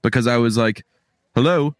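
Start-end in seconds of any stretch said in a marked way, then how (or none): 1.3-1.7 mock British phone greeting; put-on British accent. Call screener answering the phone, in put-on British accent. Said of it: "maybe I could do a better accent".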